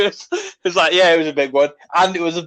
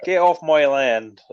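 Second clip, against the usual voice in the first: West Country farmer; 2 semitones lower than usual. Pretend. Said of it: "I'm a farmer".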